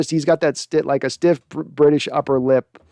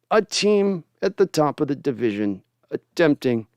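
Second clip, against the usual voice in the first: Rod Serling impression. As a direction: intone it like an eerie host. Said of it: "He's got the stiff upper lip saying".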